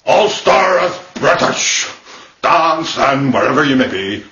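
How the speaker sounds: booming Northern Irish preacher; Ian Paisley. Acted. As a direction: bellow it like a loud Ulster demagogue. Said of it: "I am the Reverend Ian Paisley".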